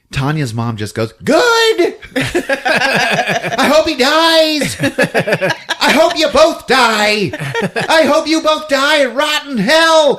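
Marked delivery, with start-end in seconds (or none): 1.2-10.2 high, loud, laughing shout; mother screaming curses at her rival, high and loud; hammed-up rage. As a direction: spit curses over the top.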